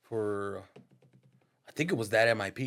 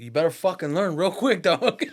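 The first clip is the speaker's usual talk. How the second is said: laughing order; 7 semitones higher, 8 dB louder than usual. Retold or imitated. Homie on the phone.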